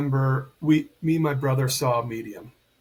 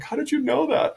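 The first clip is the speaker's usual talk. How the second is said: mom's astonished cry; 12 semitones higher than usual. Retold or imitated. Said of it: "she started bawling".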